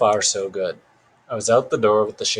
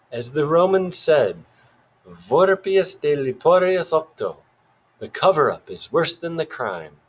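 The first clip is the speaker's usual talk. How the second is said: put-on weird British accent; 5 semitones higher than usual. A narrator's reading. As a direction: quote it pompously in a British accent. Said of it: "still in that weird accent".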